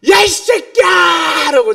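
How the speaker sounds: shouting at a reckless rider in the park; furious shout. Retold or imitated. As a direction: yell at the biker with full force. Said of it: "제가 소리를 질렀어요".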